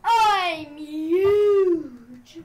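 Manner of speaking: drawn-out boast with a big mock evil laugh; villainous gloating. Parasite player crowing over being huge, mock villain laugh. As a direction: gloat loudly, breaking into a booming laugh.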